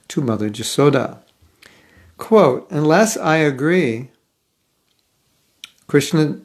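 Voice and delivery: measured scripture reading aloud. Shown as a demonstration. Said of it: "I will put on my reading voice".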